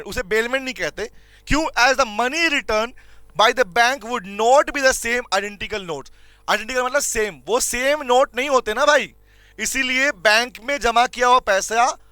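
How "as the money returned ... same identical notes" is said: words spaced out for note-taking; slow classroom dictation. Shown as a demonstration. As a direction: dictate it slowly for the class to copy. Teacher dictating notes.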